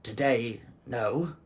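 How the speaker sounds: lightly gruff, halting reply; a hint of a gruff hooded creature. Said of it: "With a gruff voice and says".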